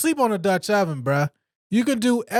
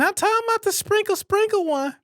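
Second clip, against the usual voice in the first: mocking; 12 semitones higher than usual. Mocking the sprinkle cheese.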